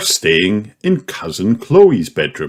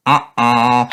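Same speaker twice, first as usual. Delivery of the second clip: gasping; 5 semitones higher than usual. Acted. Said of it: "gasps George".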